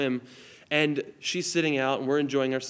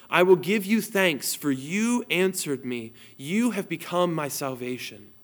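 scripture reading. Acted. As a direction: proclaim the verses from the pulpit. Reads psalm aloud.

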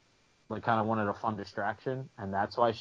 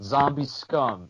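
drawn-out mock heckle, higher and louder; imitated call-out; 4 semitones higher, 5 dB louder, slower than usual. Imitating a guy calling out down the street, drawn-out heckle. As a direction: slowly call out an insult like a heckler. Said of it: "calls out".

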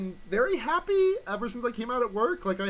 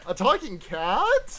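mock surprise; 3 semitones higher, 5 dB louder, slower than usual. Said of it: "mocking echo of line".

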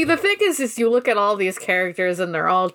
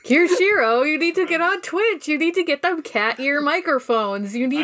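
higher-pitched mock nagging; Jellimon nagging; 5 semitones higher than usual. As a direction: badger him with a string of demands. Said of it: "Jellimon is definitely always on ... Kyoshiro's case".

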